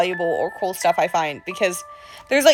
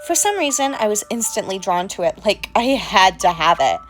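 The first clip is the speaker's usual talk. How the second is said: creepy storyteller voice. Acted. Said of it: "without this accent".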